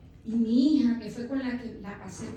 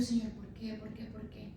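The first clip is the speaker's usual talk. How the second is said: retold crying plea; 7 dB quieter than usual. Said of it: "en que estaba llorando".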